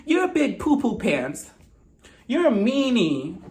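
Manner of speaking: put-on drawn-out babyish name-calling; mock childish taunting. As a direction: whine slowly like an offended little kid. Mocking babyish name-calling in argument.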